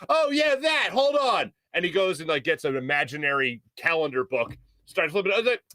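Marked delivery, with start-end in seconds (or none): 0.1-1.5 high-pitched mock holler; imitated yelling. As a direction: call it out up high. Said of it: "Still yelling".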